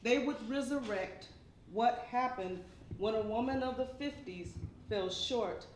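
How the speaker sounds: measured poem reading with deliberate pauses; poetry recitation. Acted. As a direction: recite line by line, weighting key words.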